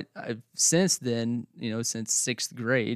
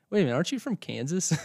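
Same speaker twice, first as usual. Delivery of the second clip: mock surprise; 7 semitones higher, faster than usual. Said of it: "people are like".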